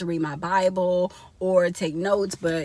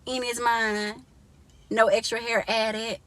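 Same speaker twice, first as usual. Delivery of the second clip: proud boast; 4 semitones higher than usual. Retold or imitated. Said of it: "And I'll be like".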